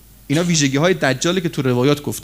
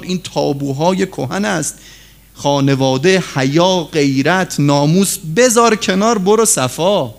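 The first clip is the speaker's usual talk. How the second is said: ordinary talk, nothing marked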